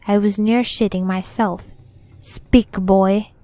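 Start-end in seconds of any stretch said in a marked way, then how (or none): 2.2-3.3 louder stagey command; Shakespearean actor. Acted. Ghost orders the frightened boy to speak, theatrical. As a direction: declaim it like an old stage actor. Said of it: "He spoke like one of those Shakespeare actors".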